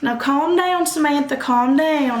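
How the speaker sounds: lightly voiced principal; principal calming. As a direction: settle the student down sternly. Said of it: "the principal was like".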